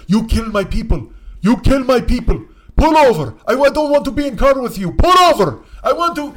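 put-on high, frantic shouting in Armenian accent; screaming Armenian passenger. Drunk passenger ordering driver to pull over, accented yelling. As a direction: yell accusations in a thick Armenian accent.

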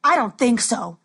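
loud thug; dim henchman. Acted.

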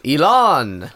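mock-grand self-introduction; lightly put-on billionaire guest announcing himself; Elon Musk. Guest answering a mock podcast host, hammed-up and pompous. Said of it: "Mister Musk, thank you for coming on our podcast".

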